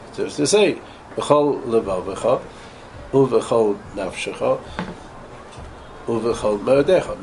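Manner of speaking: long pauses between b'chol levavcha, uv'chol nafshecha, uv'chol moedecha; spaced phrasing. Shown as a demonstration. Rabbi demonstrating gaps in the verse, exaggerated pauses. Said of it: "not as long a space as I just said now".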